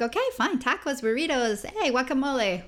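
high, perky little cheer; mock excited. Young student talking herself into the job, perky. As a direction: sell the fun of tacos.

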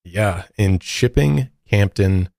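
Chipping Campden said slowly, syllable by syllable; a slow, careful Chipping Campden so as not to mess it up; careful place name. Shown as a demonstration. Careful place name for UK listeners. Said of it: "I'm not gonna mess this up".

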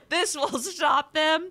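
high, drawn-out plotter voice, laughing; mock scheming men. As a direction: draw it out high like a gleeful schemer. Joins mocking the scheming men.

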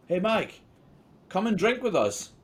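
high-pitched holler across the room; loud, high drunken hail; calling out. Retold or imitated. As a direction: shout an eager invitation over the bar noise. The speaker acted calling Mike over.

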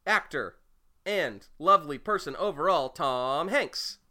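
slow, drawn-out announcer read; sponsor announcement. Pretend.

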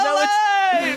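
very high, hammy cry of alive; mock excitement. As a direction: shout it like a mad scientist. Mock mad scientist cry.

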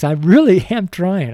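laughing through the words; laughing apology. Real, not acted. Apologising for stumbling over words.

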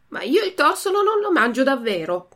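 a mild mock shout of refusal; puppet's half-hearted defiant cry. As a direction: snap back like a viper, lightly. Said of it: "gridò il burattino".

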